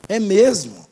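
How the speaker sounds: low, doubting "é mesmo?"; imitated questioning reply. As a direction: ask it back sceptically, low and understated. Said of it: "Desse jeito".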